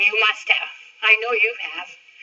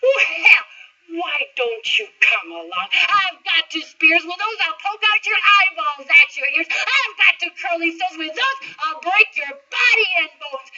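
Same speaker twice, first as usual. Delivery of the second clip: defiant big goat; 4 semitones higher than usual. Acted. Big goat challenges troll.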